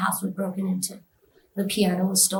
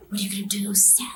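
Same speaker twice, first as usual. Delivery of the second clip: soft whispered taunt; taunting devil; 4 dB quieter than usual. Retold or imitated. Devil daring her to act, whispered taunt.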